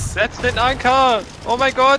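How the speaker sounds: very high, slow shouted order; panicked shout. Real, not acted. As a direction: yell it in panic.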